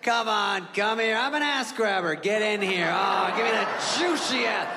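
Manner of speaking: lightly voiced pushy old uncle, coaxing; a creepy uncle egging them on; mock leering uncle.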